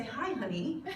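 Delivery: a bad try at a Southern drawl on the greeting; amateur Southern accent on a sweet greeting. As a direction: greet like a Southern grandmother, badly. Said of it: "maybe I should work on my accent".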